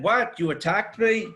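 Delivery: high, incredulous mock outrage; sarcastic imitation of an offended cleric; mock indignation. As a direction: parody his wounded surprise. Mocking the archbishop's indignant reply.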